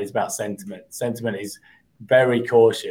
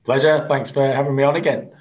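a bit hoarse from a cold; croaky voice; 4 semitones higher, 3 dB louder than usual. Real, not acted. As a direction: speak through a slight cold. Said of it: "a slightly croaky voice".

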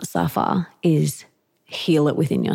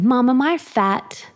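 put-on higher, small child's voice asking; young daughter asking; 8 semitones higher than usual. Little daughter asking her mum, higher child voice. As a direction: play the worried little girl in her undies. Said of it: "pinching her belly and she said".

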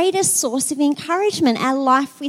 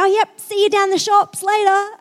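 higher, louder everyday chirp; casual; 7 semitones higher, 5 dB louder than usual. Retold or imitated. Churchgoer after the big prayer to a friend, casual. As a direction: imitate dropping the prayer voice for casual chat.

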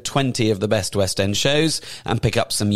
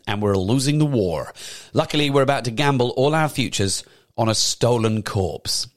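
put-on American accent. Presenter teasing the war musical's plot, American accent. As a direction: narrate it like an American. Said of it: "I'm doing an American accent".

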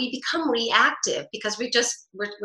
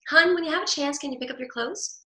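lilting up; 5 semitones higher than usual. Shown as a demonstration. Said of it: "I could just lilt up and say".

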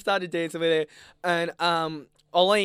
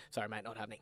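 much softer, lower brush-off; girl's brush-off; 6 semitones lower, 16 dB quieter, faster than usual. Retold or imitated. Quoting the girl rejecting his lean-in, hushed. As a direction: let him down low and quiet. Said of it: "she goes".

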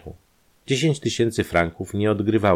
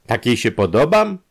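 louder, higher flattered question; eager surprise; 7 semitones higher, 6 dB louder than usual. A narrator's reading. Industrialist asking if she likes him, eager surprise. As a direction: ask with delighted disbelief. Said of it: "zawołał przemysłowiec".

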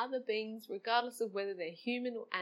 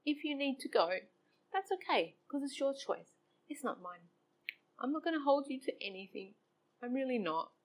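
tender to dog; 5 semitones higher than usual. Retold or imitated. Talking softly to dying dog.

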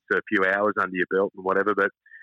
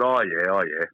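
dry, disbelieving, a little lower; sceptical oh yeah; 3 semitones lower, slower than usual. Retold or imitated. Answering Carl's offer of a game, doubtful. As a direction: humour him without believing a word. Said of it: "I said".

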